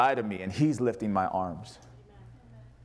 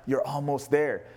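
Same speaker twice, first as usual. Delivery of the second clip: slow gentle encouragement; slower than usual. Retold or imitated. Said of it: "he's like".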